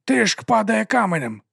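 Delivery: high, loud lisping amazement; excited lisping servant. A narrator's reading. Excited servant reacts to pressure drop.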